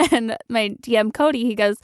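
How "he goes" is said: normal talking voice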